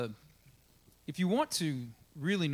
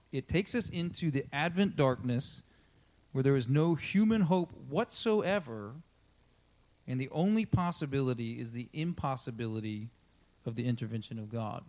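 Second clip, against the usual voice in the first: solemn quote reading. Acted. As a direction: read it weightily, phrase by phrase. Rereads the quote.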